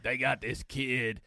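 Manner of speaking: slow, lightly imitated southern comic; Ron White. Podcaster imitating a guest who forgot him, slow impression. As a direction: draw it out as the forgetful guest. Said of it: "the impressions are very similar".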